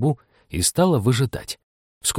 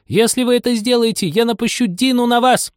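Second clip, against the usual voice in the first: high loud threatening cry; shouting with all her might; 13 semitones higher, 3 dB louder than usual. Acted. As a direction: yell a threat at them. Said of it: "крикнула изо всех сил".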